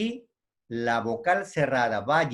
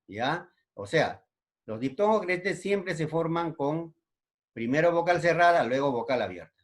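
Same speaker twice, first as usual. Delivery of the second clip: ordinary talk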